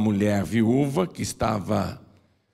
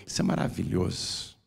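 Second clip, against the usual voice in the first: hushed awe; 4 semitones lower, 6 dB quieter than usual. Real, not acted. Awed aside.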